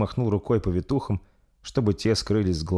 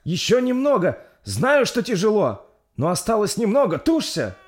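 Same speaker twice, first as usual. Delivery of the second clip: encouraging midwife; 14 semitones higher, 5 dB louder than usual. Acted. Midwife encouraging the last push.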